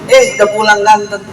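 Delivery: sweet parent greeting. Retold or imitated. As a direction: croon it to your child.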